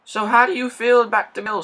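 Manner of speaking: loud, high, cheerful holler. A narrator's reading. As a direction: bellow it out happily. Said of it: "said Rheneas loudly".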